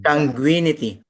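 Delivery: Consanguinity said clearly as a prompt; prompting the word. Shown as a demonstration. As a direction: spell out Consanguinity in full, syllable by syllable.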